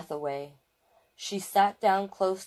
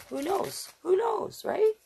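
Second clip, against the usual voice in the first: 1 playful tease; 13 semitones higher than usual. Real, not acted. Playful teasing aside.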